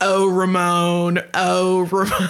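slow, drawn-out gruff movie character; Romy's gruff voice. Retold or imitated. Co-host quoting the film's gruff heroine, playful slow imitation. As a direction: imitate her gruff, Teamster-like delivery, taking it slowly. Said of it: "She sounds like a Teamster".

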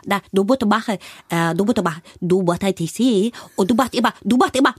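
mimicking the coach's Asian accent, „musst“ said like „bot“; imitating the accent coach. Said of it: "die hat immer gesagt". (Nachahmung der Sprachberaterin mit asiatischem Akzent)

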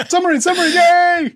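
put-on high-pitched childlike chant into a cheer; Scott Morrison, excited. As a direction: squeal it like a giddy kid. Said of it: "how excited he is".

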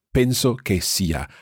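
slowly, each word clear: "Penso che sia"; slow set phrase. Shown as a demonstration. Teacher models "Penso che sia" for students, slow and clear. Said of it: "think of this as a set phrase".

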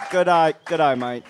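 put-on broad Australian bogan accent; Barry Chang. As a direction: play a matey Australian bogan. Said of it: "the bogan".

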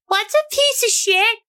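put-on very high little-kid voice; innocently curious, squeaky child; Tiffany. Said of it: "Tiffany's just looking at you like".

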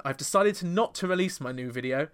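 put-on a light British accent as a singer; mild mock British accent imitating a singer; a singer's statement in a light British accent. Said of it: "I'm doing it in a British accent there".

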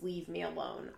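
a yell swallowed to near silence for the neighbours; scream held back. Retold or imitated. Vlogger in thin-walled flat quoting a scream, held back quietly. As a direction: mouth a scream softly, walls are thin. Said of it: "I was about to scream, but there are thin walls".

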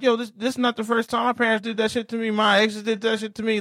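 high-pitched mock outrage; exasperated rant. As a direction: voice the hurt of being left again. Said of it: "I'm like".

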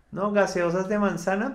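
high, loud mock pitch; mocking businessman. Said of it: "Ardila Lule cuando montó Postobón".

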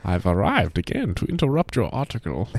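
intruding character voice. Pretend. Cohost voices Klingelhofer interrupting.

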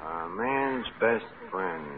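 slow, pondering each word; slow musing. Acted. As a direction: mull it over slowly. Pondering the question.

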